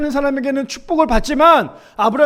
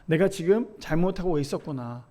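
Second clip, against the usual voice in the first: quiet realization; 6 semitones lower, 7 dB quieter than usual. Retold or imitated. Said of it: "뒤늦게나마 깨달았겠죠".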